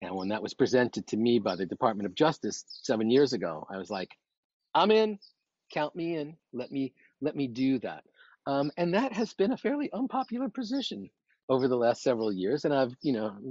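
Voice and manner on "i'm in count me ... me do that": jumping at the offer, high and bright at first; an instant, keen I'm in; eager yes. Retold or imitated. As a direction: burst out with a quick yes that settles down.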